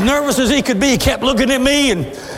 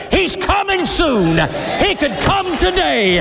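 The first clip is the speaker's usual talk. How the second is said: joyful shout; 4 semitones higher than usual. Acted. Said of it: "look up and say".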